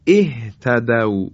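اهتدوا said slowly, opening with a clear e sound; start with kasra. Shown as a demonstration. (اهتدوا را آهسته با کسره شروع کنید)

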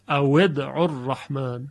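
او ادعوا said as aw-i d'u, the waw of او with a short i; the waw of او gets a short i before ادعوا; waw with kasra. Shown as a demonstration. Teacher shows the Hafs reading of او with kasra.

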